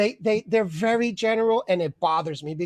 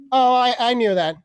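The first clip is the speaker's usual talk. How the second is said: know-it-all; 3 semitones higher than usual. Retold or imitated. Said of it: "people answer with".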